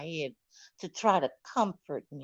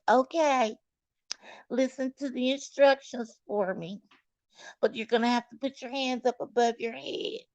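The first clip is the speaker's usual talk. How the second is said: nurse voice; 5 semitones higher than usual. Retold or imitated. Imitating the nurse's instructions.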